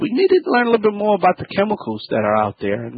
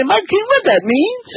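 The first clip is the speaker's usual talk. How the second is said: imitating a puzzled listener. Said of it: "You probably say".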